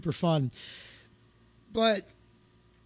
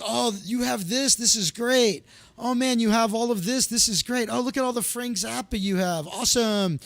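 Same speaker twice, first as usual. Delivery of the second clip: higher-pitched, gushing mock delight; imitated excitement; 4 semitones higher than usual. Friend browsing his CDs, imitated excitement. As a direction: act out a friend's excited discovery.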